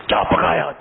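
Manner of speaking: playful mock yell; mock shouting. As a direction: imitate a husband yelling on coming home. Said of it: "شوہر گھر میں آ کے چیخ کے بولتا ہے".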